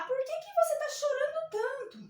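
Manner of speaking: caring letter O. Pretend. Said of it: "Ô, A".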